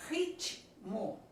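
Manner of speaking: "Ritmo" broken into rit and mo; "Ritmo" in two detached syllables; split into syllables. Shown as a demonstration. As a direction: leave a gap between T and M in "Ritmo". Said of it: "O T com o M acontece em letras diferentes".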